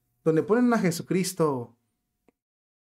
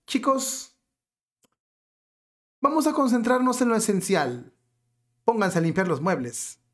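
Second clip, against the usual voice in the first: higher-pitched parody of an oblivious boss; lightly acted leader redirecting everyone; mock household leader; 6 semitones higher than usual. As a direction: address the household like a clueless leader. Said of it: "le preguntamos al líder supremo de la casa".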